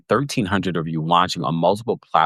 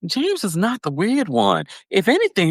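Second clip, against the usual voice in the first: much higher, defensive imitation; mock Sutton; 12 semitones higher than usual. Retelling Sutton defending her son, much higher mock indignation. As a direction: correct it with a mock huff. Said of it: "And Sutton's like".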